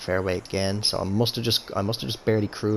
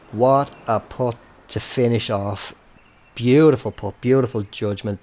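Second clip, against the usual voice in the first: loud, excited putt celebration; big, slow cheer for a great putt; golf commentator; 6 dB louder than usual. Real, not acted.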